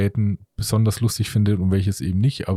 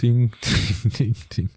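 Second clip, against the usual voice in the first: mock bell chime; slower than usual. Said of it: "Ich versuche nur ein bisschen Stimmung zu machen".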